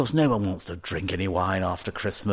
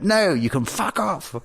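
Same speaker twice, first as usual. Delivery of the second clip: gruff worker; 10 semitones higher than usual. Retold or imitated. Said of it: "And he went".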